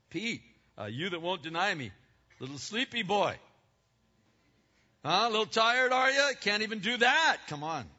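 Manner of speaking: mocking teasing. God teasing the sleeping Peter.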